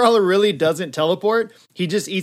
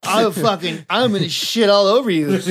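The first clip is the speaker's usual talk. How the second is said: raised, cocky taunting; mock threat; 2 semitones higher, 3 dB louder than usual. Nightcrawler taunts the fleeing Magneto, raised mock threat. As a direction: jeer after someone fleeing, half laughing. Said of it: "He's like".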